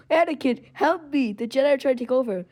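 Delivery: high, whiny plea for help; pleading Palpatine. Retold or imitated. Palpatine pinned, begging Anakin for help, high and whiny. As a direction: beg like a cornered old villain. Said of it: "he's like".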